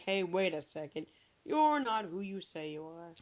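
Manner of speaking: a lightly hammed-up prime minister catching the trick; mock Tony Blair. Imagining Blair calling out the phone impersonator, mock suspicious.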